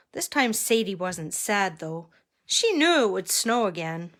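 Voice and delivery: measured read-aloud with lifted key words; story narration. A narrator's reading. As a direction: read a picture book to children. Reads picture book to children.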